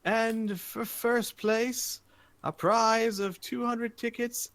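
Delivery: high, slow, drawn-out prize announcement; arena announcer. Acted. Announcer revealing top prizes to the arena, grand build-up. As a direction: build up each prize like a showman. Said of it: "he says as the audience".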